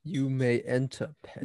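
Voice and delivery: slow, haughty royal decree. Pretend. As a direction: grant entry like a snooty king. Mock royal permission.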